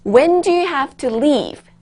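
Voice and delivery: playing a friend. Teacher playing a friend who asks when students must leave. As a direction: ask it like a friend, slowly and clearly. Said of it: "제가 친구 역할을 해서 질문을 할게요".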